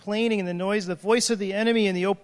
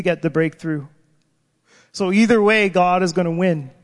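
prophetic preaching; 4 dB louder than usual. Retold or imitated. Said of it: "she said stuff like".

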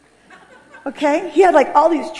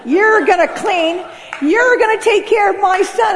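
loud, raised, commanding voice; bossy mother-in-law; 7 semitones higher, 5 dB louder, slower than usual. Retold or imitated. Dutch mother-in-law ordering her son's wife, loud and bossy. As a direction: bark orders like a domineering mother. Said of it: "She's like".

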